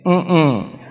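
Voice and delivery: closed-mouth "mm-mm" for no; wordless refusal. Retold or imitated. Squeezed by God's hand, can't speak, hummed refusal. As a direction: hum a refusal, imitating someone unable to speak. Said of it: "ya yo no podía hablar, pero le dije".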